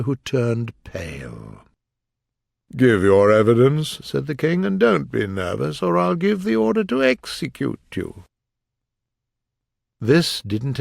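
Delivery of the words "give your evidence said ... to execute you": a stern, booming king; pompous king voice. Acted. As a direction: order the witness about like a king. The King's commanding voice.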